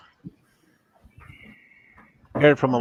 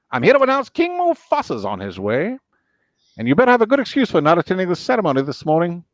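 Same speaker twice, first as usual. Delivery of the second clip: higher, fast fussy bird voice; Zazu; 5 semitones higher than usual. Acted. Zazu announcing King Mufasa to Scar, high and prim. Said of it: "Scar from Lion King".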